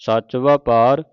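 slow, measured Gurbani reading; measured devotional recitation; scripture recitation. Acted. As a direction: recite each phrase deliberately, drawing out the vowels.

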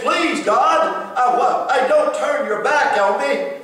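a hint of a pleading David; lightly voiced plea to God. Preacher voices David begging God, mildly pleading. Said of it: "David said".

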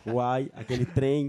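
put-on Goiás accent. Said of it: "Aí eu falava assim".

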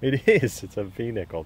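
breathless treasure hunter. Real, not acted. Finds a rare V nickel.

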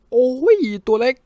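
high, loud playful ouch; pained protest. A narrator's reading. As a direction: yelp at a smack from your sweetheart. Hit by partner, cries out.

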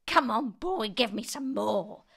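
put-on high, loud old woman's order; demanding yell. A narrator's reading. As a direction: yell for it, stretching the end. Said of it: "she yelled".

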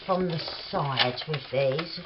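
talking with tongue out; words round a poked-out tongue; tongue sticking out. Real, not acted. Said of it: "look at me trying to talk with my tongue out".

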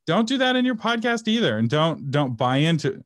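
real impassioned rant against a lie; passionate rant. Real, not acted. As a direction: pound the message home like a sermon. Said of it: "I'm ranting here".

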